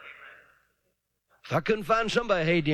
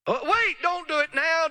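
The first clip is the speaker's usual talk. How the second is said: high, urgent coaxing; the devil pleading to wait; mock tempter; 11 semitones higher than usual. Voicing the devil's delay.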